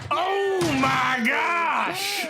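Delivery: excited. Real, not acted. Excited reaction.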